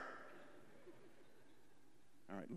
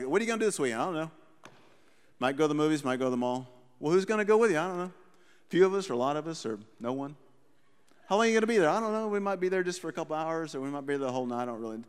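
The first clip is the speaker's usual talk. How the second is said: put-on kids talking; 3 semitones lower, much faster than usual. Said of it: "This is how we all talk".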